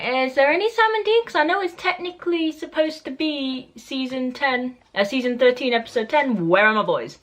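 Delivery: high, put-on whine asking for the brothers; hammed-up impatient fan voice. Fan whining to the show for Sam and Dean, high mock whine. Retelling own impatience mid-episode.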